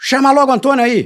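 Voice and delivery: put-on very high, loud, irate voice. Retelling a phone call, imitating the angry caller on the line. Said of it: "o rapaz aqui tá bravo".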